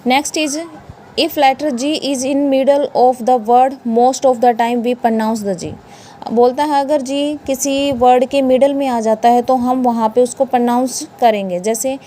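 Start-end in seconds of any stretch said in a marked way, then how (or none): 1.2-5.7 slow rule reading. Shown as a demonstration. Reads the rule out slowly.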